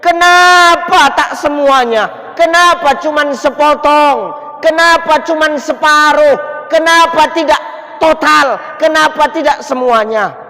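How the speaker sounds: high, loud, slow anguished cries; Sya'ban's last dying scream, high and loud; third scream. Retold or imitated. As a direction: scream it out, drawn long. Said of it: "Sya'ban menjerit".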